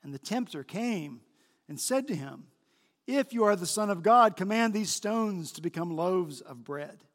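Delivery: measured public Bible reading; solemn narration with emphatic quoted speech; Scripture reading. A narrator's reading. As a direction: read the passage aloud with clear emphasis. Reads Scripture aloud to congregation.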